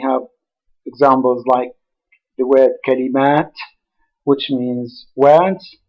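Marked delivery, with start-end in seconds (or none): 2.9-3.5 "kalimat" stressed on a long final MAT; final-syllable stress. Shown as a demonstration. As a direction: lean on the last syllable of "kalimat". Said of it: "stressed on the last syllable".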